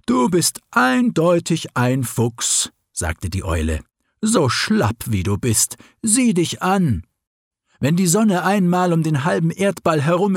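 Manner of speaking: high, teasing owl voice; an owl scolding a lazy fox; mocking owl. Owl mocks the sleepy fox.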